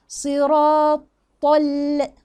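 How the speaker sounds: "صراط" slow and heavy, easing onto a light "ال"; very unhurried recitation. Shown as a demonstration. Teacher takes the laam carefully, slow chant. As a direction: stretch it, then settle gently on the l. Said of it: "بالراحة خالص على مهلي".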